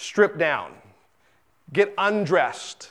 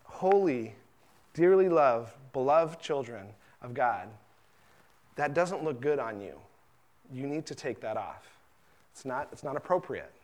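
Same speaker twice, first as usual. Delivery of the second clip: gentle fatherly correction; 3 semitones lower, 5 dB quieter than usual. Retold or imitated. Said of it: "And he says".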